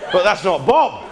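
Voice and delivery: hammed-up West Country villager; broad mock West Country, pitch swooping; bad West Country accent. Villagers raising the alarm over car theft, mock West Country accent. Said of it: "shit attempt at the accent".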